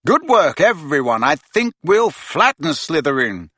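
high, upbeat team pep talk; rally the team with cheer; bracing. Acted. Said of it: "he said bracingly".

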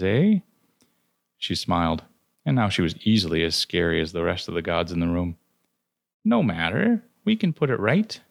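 put-on an old crone who knows she holds the thread; knowing old Fate. Clotho sizing up the soul-seller, sly and knowing.

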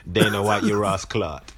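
mock Jamaican patois insult; playful Yardie accent cuss; inner Yardie accent. Host calling out Dana White, put-on Jamaican accent. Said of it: "Leon needs to channel his inner Yardie".

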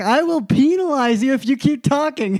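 high-pitched New York teacher threat, PEE-nalize; hammed-up New York scolding; crazy New York accent. Teacher repeats the threat to student, crazy New York accent. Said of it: "she had this crazy New York accent".

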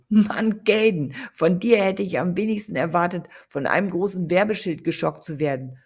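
loud, gleeful teasing call; mocking laughing shout. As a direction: rib him loudly while laughing. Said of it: "hielt sich vor Lachen den Bauch".

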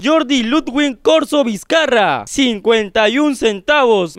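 slow, grandly projected name announcement; affected, projected voice. Pretend. Host grandly announcing a donor's name, affected projected voice. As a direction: draw out each name like a pompous announcer. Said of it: "con esa impostación".

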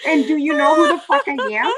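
high, loud hammed-up boasting; exaggerated mock bragging; mocking the braggart. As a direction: blare it out mockingly like a self-important man. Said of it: "walking around a bar going".

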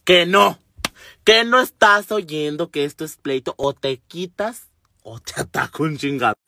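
firm, irritated threat; mock-angry warning. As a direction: imitate a fed-up woman warning someone off. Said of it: "la que venía más enojada".

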